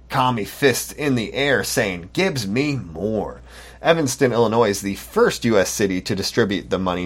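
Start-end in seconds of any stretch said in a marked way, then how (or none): 2.1-3.4 mocking slow whine. Mock quote of protesters.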